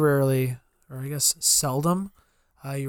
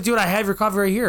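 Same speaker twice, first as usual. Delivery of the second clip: fast, higher, incredulous; exasperated disbelief; 5 semitones higher, 3 dB louder, faster than usual. Retold or imitated. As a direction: tell him the obvious, baffled. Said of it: "I literally was like".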